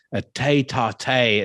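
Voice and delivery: slow, mock-posh tete-a-tete; posh French phrase. Shown as a demonstration. Podcast host teasing a guest about a row, mock-posh. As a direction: say "tete-a-tete" slowly like posh folk. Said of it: "as the posh folk would say".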